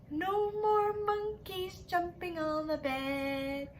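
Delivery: a light sing-song doctor's scold; doctor's scolding line. Acted. Rhyme doctor warning the monkeys, lightly mock stern. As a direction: chant it like a mild warning. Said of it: "the doctor said".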